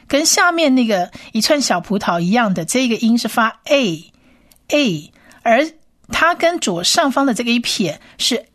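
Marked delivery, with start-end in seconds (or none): 2.6-5.1 a, a drawn out slowly; sounding out a. Shown as a demonstration. Teacher models the vowel a slowly. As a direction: hold a, a long.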